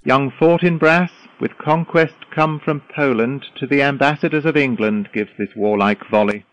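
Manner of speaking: loud announcement. Acted. Osric announcing loudly.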